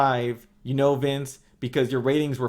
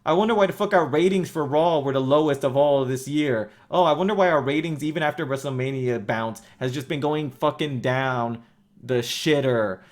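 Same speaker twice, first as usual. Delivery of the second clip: mock clueless executive. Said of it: "you're sitting here wondering".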